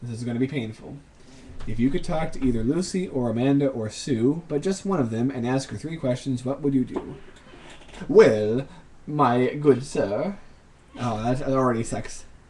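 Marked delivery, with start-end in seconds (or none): 8.1-10.4 very slow, loud, unconvincing British accent. Answering a game question in a British accent as instructed; bad British accent. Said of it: "Answer the following in a British accent".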